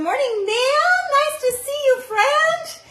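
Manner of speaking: high and loud, delighted to see her; excited greeting. Real, not acted. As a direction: squeal a happy hello to a friend. Greets a friend in the live chat.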